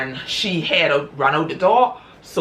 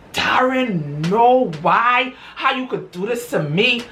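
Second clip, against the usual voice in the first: upset wife; 7 semitones higher, slower than usual. Retold or imitated. Wife catching her husband in bed, hurt and high. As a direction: confront him, betrayed and rising.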